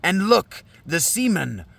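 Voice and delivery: lightly voiced Danaus, measured verse; solemn father figure. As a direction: declaim as a seer addressing the children.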